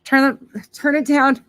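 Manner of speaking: high, loud call across the kitchen. Real, not acted. Calling to Kyle across the kitchen, loud and high. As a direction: tell him to turn it down, loud and high. Kyle panicking over boiling pot.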